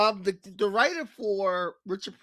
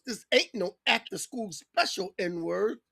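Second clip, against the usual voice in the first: menacing threat; 3 semitones higher than usual. Retold or imitated. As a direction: start cool, then explode into a threat. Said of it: "Wayne Brady goes".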